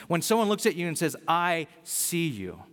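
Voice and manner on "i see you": very slow, each word given weight; sincere affirmation. Retold or imitated. Someone blessing another by seeing them, slow and sincere. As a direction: draw it out sincerely to one person.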